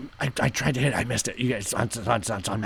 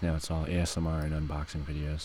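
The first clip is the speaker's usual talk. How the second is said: whispering; 3 semitones lower, faster than usual. Acted. Whispering about ASMR.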